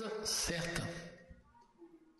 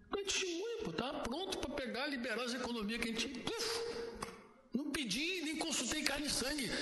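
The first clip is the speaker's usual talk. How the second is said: indignant pleading; 6 semitones higher than usual. Retold or imitated. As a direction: pour out the grievance, voice climbing. Pastor pleading angrily with God. (protestando indignado com Deus, voz aguda)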